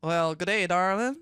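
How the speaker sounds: attempted Australian slipping into Southern; Southern accent. Shown as a demonstration. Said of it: "No, that's Southern".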